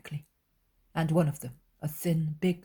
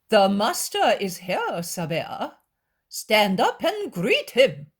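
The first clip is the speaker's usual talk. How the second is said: loud, higher urging call; 5 semitones higher, 7 dB louder, slower than usual. Acted. Scribe urging Sabea to stand, loud insistent call. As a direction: call down to her, insistent and slow.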